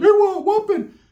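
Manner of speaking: cartoon-style voice, pitched way up high. Showing how they usually imitate their cousin in the videos, Mickey Mouse voice. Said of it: "put the Mickey Mouse to it".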